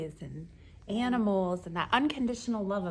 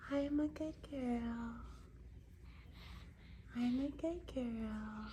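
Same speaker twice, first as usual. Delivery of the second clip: voicing the baby; 8 dB quieter, slower than usual.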